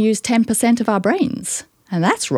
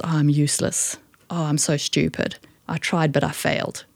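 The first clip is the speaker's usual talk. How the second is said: mildly defeated, quieter voice; dejected self-talk; 2 semitones lower, 5 dB quieter than usual. Acted. Acting out what we say to ourselves, mildly dejected. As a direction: put yourself down softly, as if defeated.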